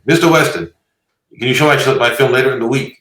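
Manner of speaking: horrible mock Asian-accented impersonation; hammed-up imitation with an Asian accent. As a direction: do a bad Asian accent, high and loud. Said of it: "Horrible, horrible, uh, uh, impersonation".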